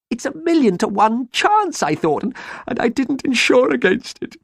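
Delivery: very high, hammed-up wailing; broken-hearted lament. A narrator's reading. Ruined farmer bemoans his custard-flooded farm, high sobbing wail. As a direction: pile up the woes in a high wail. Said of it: "he sobbed broken-heartedly".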